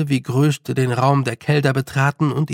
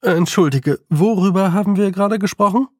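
higher, quick toad voice, forgetting; confused toad; dazed toad; 6 semitones higher, 4 dB louder than usual. A narrator's reading. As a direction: toad snapping back to itself. Toad speaks.

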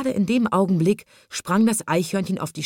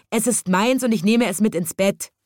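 loud, high angry shout; angry boy; 6 semitones higher, 4 dB louder than usual. A narrator's reading. Snub-nosed boy claims the squirrel, angry and loud. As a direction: stamp your foot as a defiant boy. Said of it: "schrie ein stupsnäsiger Junge zornig".

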